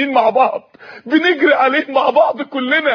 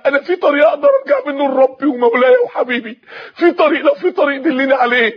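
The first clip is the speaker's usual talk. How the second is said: tearful pleading; 2 semitones higher than usual. Acted. Pleading to sheikh, crying.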